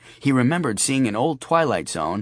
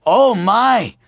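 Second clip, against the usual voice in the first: put-on old lady voice; 10 semitones higher, 8 dB louder than usual.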